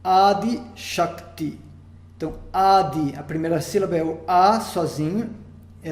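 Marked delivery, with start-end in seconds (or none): 0.0-1.6 Adi Shakti said slowly with a dental d; slow Sanskrit demo. Shown as a demonstration. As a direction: pronounce Adi Shakti deliberately, every syllable clear. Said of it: "Outra palavra".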